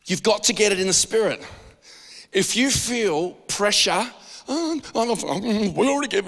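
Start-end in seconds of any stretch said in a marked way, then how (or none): 4.5-6.3 high, whiny mock excuse; mock pressured excuse. Pastor mimicking a pressured churchgoer's high excuse. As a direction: play a reluctant giver making excuses. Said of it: "like this".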